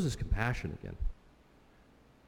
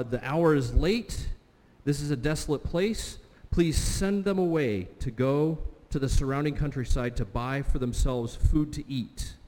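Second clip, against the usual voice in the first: voicing the disciples; 3 semitones higher than usual. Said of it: "the disciples show up and they say".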